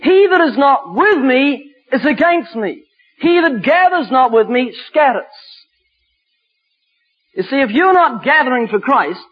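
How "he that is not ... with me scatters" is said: deliberate, emphatic Bible reading; scripture declamation. Acted. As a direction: proclaim the verse with weight.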